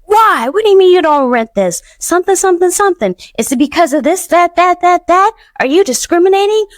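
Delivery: imitating a star scolding a theater owner; mock indignant tirade. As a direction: retell her telling off the owner, hammed up. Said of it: "went in on him like nobody's business".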